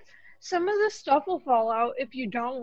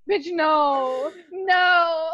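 louder, drawn-out final refusal; mock exasperation; 3 semitones higher, 4 dB louder, much slower than usual. Friend retells correcting co-host, mock exasperation. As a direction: shut it down with playful disbelief. Retold reaction to friend's mistake.

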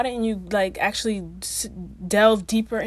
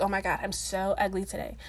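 odd mock whine; 2 semitones lower, 5 dB quieter than usual. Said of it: "I don't know why I said it like that".

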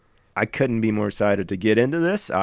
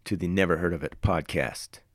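trailer voiceover voice. Acted. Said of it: "A little bit of a trailer voiceover guy kind of vibe".

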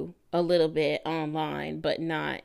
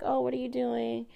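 higher, easy small-talk voice; imitating her breezy check-in; calm and collected; 5 semitones higher, 3 dB quieter than usual. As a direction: keep it light and unbothered. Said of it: "very calm and collected".

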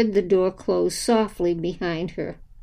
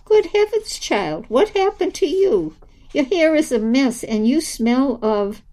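shocked, much higher and louder; Charming startled at Dora's state, high exclaiming; 5 semitones higher, 3 dB louder than usual. Acted. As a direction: gasp it out, startled by the mess. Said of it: "and exclaimed".

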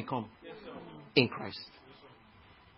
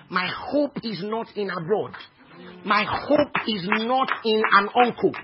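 measured start growing louder; building declaration of faith; 3 semitones higher, 4 dB louder than usual. Real, not acted. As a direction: build steadily to a ringing confession.

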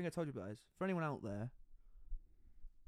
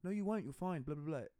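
put-on dismissive girlfriend; 3 semitones higher than usual. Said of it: "she was like".

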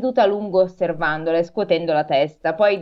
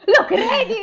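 high-pitched, hammed-up little girl's cry; squealed storybook exclamation; little Gerda's cry; 14 semitones higher, 4 dB louder than usual. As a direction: cry it out far higher, close to laughing. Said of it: "gridò la piccola Gerda".

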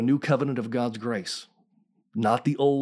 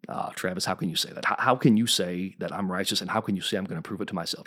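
lightly voiced doubter; 4 semitones lower, faster than usual. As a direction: lightly mimic a listener's objection, dropping the voice. Voices a doubting listener's objection.

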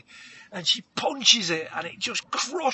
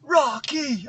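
calling out; 7 semitones higher, slower than usual. Acted. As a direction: call it out from the crowd. Retelling crowd calling her name.

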